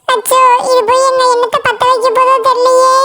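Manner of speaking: mock-worried muttering to oneself. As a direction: fret comically about being told on. Threatened with telling mother. (கவலையோடு புலம்பல்)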